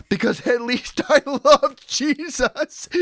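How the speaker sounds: slow, high, creepy killer voice; serial killer voice. Pretend. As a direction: drawl it like a slasher villain. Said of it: "That was my impression of a serial killer".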